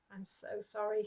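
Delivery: soft, quiet mutter to the dead; muttered apology. Acted. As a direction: say it under your breath. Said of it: "she muttered to them".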